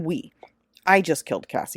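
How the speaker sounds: ordinary delivery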